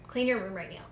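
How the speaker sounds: soft, low self-talk; quiet inner voice. Retold or imitated. Inner voice giving a silly impulse.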